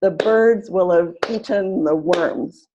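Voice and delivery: slow, BIRDS and WORMS punched on each beat; teacher modelling rhythm, slow and clear; stress-timed demo. Shown as a demonstration. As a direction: clap it out, one beat per stressed word. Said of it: "And line four".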